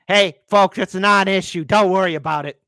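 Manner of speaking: sarcastic. Real, not acted. Sarcastic dismissal.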